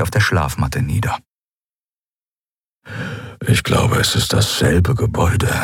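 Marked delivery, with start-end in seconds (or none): 3.5-5.5 low murmured aside; low quiet grumble. Acted. Keru to Endriel, a low hushed grumble. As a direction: keep it low so the guard won't hear. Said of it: "brummte Keru leise".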